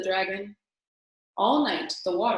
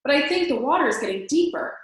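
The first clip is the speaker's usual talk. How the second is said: higher, louder, worried cry; dragon shrieking; 6 semitones higher, 5 dB louder than usual. A narrator's reading. Dragon to Elmer in rising water, shrieking. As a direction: shriek it over the storm. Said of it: "shrieked the dragon".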